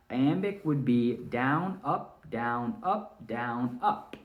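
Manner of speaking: slow, beat-by-beat down up down up; a teacher counting out the iambic beat slowly; down up rhythm. Shown as a demonstration. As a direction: mark each beat as you count it out. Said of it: "saying down for unaccented syllables and up".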